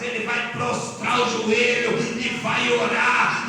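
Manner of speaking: loud, measured preacher's build; forceful preaching. Real, not acted. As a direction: drive each promise home to the congregation.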